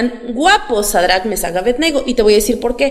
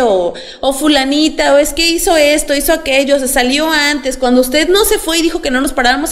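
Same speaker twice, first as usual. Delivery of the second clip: put-on tattling child; 2 semitones higher than usual. Preacher imitates a pupil telling on a classmate to the teacher. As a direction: play a schoolkid snitching on a classmate, lightly voiced.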